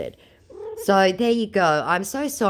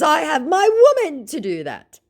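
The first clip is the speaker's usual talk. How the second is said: mock scammer voice; 13 semitones higher, 5 dB louder than usual. Voicing scammer.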